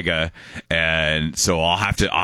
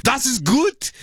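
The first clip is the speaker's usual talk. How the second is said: very high imitated teacher's yell; yelling German teacher; slower than usual. Host imitates teacher yelling at class, high mock yell. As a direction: yell praise like an overzealous teacher. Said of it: "the teacher would just yell".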